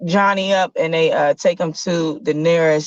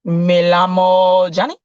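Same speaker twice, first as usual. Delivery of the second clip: Spanish; 4 dB louder than usual. Acted. Johnny answers in Spanish.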